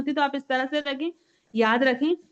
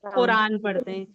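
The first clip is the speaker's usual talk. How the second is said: spelled out slowly and deliberately; slow, emphatic answer; 2 semitones lower, slower than usual. Shown as a demonstration. Teacher slowly gives the answer to the class. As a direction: lay out the answer slowly for the kids. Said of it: "ये सब मिलकर क्या पढ़ते हैं?".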